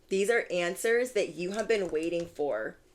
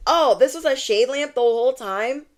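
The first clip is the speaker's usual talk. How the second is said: high, loud surprised realization; mock surprise; 6 semitones higher, 6 dB louder than usual. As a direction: gasp at the truth, a little hammed-up. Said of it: "we're like".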